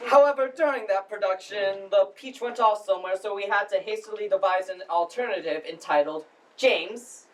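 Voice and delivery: formal, halting welcome speech; lightly pompous drama society director addressing the house; Chris. Acted. Drama society head welcomes audience to the spring production, formal speech. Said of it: "that was Chris's monologue from the play".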